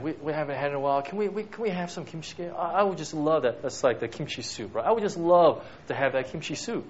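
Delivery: gentle, coaxing ask for kimchi jjigae; sweet request. Shown as a demonstration. Husband asking wife Lisa for soup, coaxing. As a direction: ask your wife nicely, warmly. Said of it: "that could be one way of saying it".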